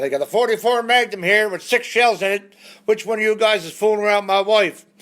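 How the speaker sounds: high, loud menacing demand; mock threat. Man with a gun threatening the men in the bar, mock menace. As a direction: challenge the whole bar.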